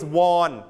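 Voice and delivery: "won" said like the Korean money; Korean-currency pronunciation. Shown as a demonstration. Teacher showing students the wrong past of win, "won" as in Korean money. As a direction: say "won" with an open aw vowel. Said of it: "the money of Korea".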